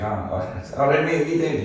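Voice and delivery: chirpy Glaswegian greeting, pitched well up; high Glasgow accent. Retold or imitated. Mimicking Glasgow folk asking what you're doing, high Glasgow accent. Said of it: "You know, that sort of high pitch".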